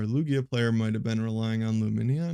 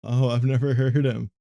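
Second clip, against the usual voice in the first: laughing; 6 dB louder than usual. Real, not acted. Laughing reading a chat message.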